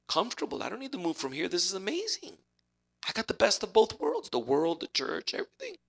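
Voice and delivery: lightly voiced smug relaxed churchgoer; a hint of a self-satisfied pew-sitter; smug comfy churchgoer. Preacher acts a comfortable lukewarm Christian, mildly smug. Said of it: "acting the lukewarm chair sitter".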